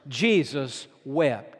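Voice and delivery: low, slow, hushed reading of "Jesus wept"; a grave pause on "Jesus wept"; hushed solemn verse. Acted. Verse read slowly, low.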